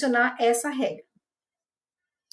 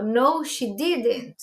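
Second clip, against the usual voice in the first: very slow, deliberate negative answer; slow model answer; much slower than usual. Shown as a demonstration. Teacher models the negative answer for students, very slow. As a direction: lay each word down for the class. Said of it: "Então, eu digo".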